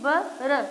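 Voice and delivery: ब and र as two separate sounds; teacher isolating ब, then र; sounds separated. Shown as a demonstration. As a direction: sound out "ब र" one by one. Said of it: "दोनों की अलग से आवाज़".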